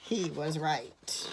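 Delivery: measured narration, slowing and softening at the end; hushed close to a story moment; story reading. A narrator's reading. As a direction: read a picture book to children. Reads a picture book to children.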